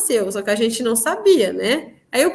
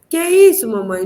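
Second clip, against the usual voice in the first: lightly voiced little child; 3 dB louder than usual. Small daughter pointing up to ask mother, light child imitation. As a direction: lightly imitate a toddler's insistent question.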